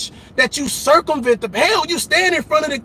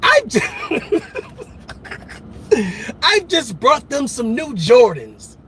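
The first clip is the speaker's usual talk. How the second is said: mock whiny parent. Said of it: "talking like this".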